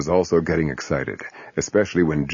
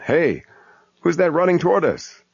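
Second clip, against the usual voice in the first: alarmed voice; 10 semitones higher than usual. Acted. Man alarmed in skit.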